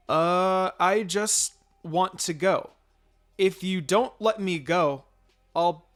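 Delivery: a hint of a pleading little boy, slowed; lightly voiced child pushing his case; whiny kid. Sasuke pressures the babysitter, lightly voiced whiny boy.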